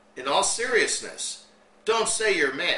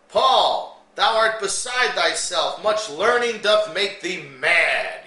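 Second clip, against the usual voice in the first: accusing king; 3 semitones higher, 5 dB louder, slower than usual. Retold or imitated. King rebukes Paul in retelling.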